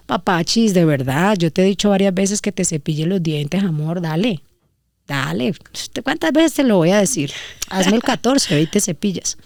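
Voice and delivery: a kind, serious reminder without a harsh edge; firm but loving. Shown as a demonstration. Mother asking her son kindly but firmly to brush his teeth. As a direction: say it warmly yet with authority. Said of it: "no con ña, ña, ña, y no seria".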